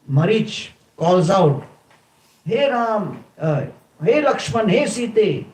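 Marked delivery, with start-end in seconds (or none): 2.4-5.5 higher, a hint of a desperate cry for help; lightly voiced demon mimicking Ram; demon calling in Ram's voice. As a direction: call out to them as if you were Ram in trouble. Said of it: "in the voice of Ram".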